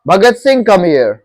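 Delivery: mock call to an acquaintance. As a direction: casually summon someone you know well. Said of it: "अगर इसको पुकारना होगा".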